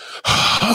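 heavy breath out before giving in; exasperated sigh. Real, not acted. Asked to read the whole title, exasperated sigh. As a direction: sigh with annoyance.

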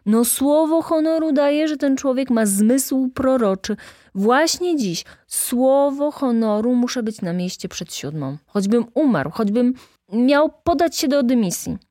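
put-on high, loud, gushing young clerk; theatrical earnest protestation; emphatic swearing. A narrator's reading. Clerk swears by his excuse.

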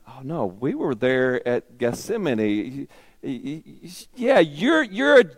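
high, pressing accusation, stammering; accusing bystanders. Acted. Bystanders accusing Peter by the fire, high and insistent. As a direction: corner him with eager accusations.

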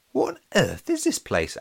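high-pitched baffled wondering; high, puzzled inner voice; Alex's puzzled thought. A narrator's reading. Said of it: "Alex thought".

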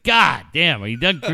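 loud retold needling jab; mock exasperation. Dad re-enacting son's jab at him, loud mock exasperation. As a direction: punch the opening as a teasing complaint.

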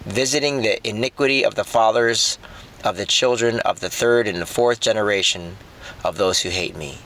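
solemn scripture read. Acted. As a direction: read it as God's command, measured. Reading scripture as God.

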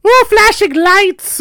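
put-on high, loud, slow childlike gasp of wonder; little kid voice. Kid dazzled by Star Wars lights, high wondering voice. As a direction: play a six-year-old dazzled by lights. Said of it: "I had an accent".

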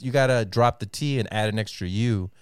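usual speaking voice

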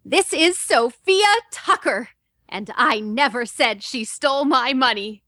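slow, proud reporter intro; full slate, proud of her new job; a hint of a proud young reporter. Shown as a demonstration. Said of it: "she's proud of herself that she's got this job as a reporter".

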